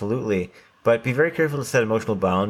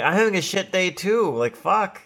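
high exasperated retort; 9 semitones higher than usual. Retold or imitated. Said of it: "venting back at a stranger".

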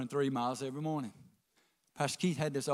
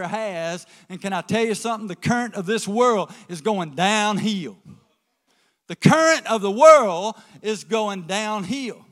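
loud, building preacher cadence; full-force preaching; 5 semitones higher, 9 dB louder than usual. Acted. Pastor urging the congregation to stay tied to the dock, preaching loud.

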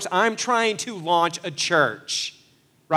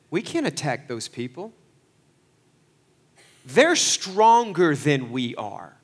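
a hint of irritation; mildly annoyed doubters; irritated. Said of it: "Can you hear the irritation in their voice?".

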